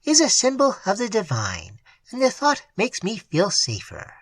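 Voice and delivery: lifted, proud and pious. A narrator's reading. The mate explains her sketch to the men, proudly. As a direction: present the painting as sacred. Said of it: "she added proudly".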